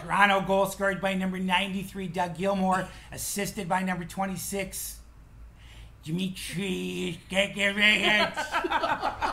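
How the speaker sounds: mock Chicago arena announcer, name drawn out. Chicago PA announcer calling the goal, hammed-up Chicago accent with laughter. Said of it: "I wanna hear how he pronounces it".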